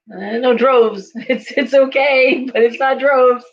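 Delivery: slow, high, laughing protest; chuckling, acted-out denial; amused dismissal. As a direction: laugh it off, drawing the words out. Laughingly dismissing Judith's prediction, acted.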